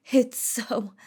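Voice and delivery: whispered taunt; sudden whisper. Acted. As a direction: drop to a whisper for effect. Villainess taunting the crowd.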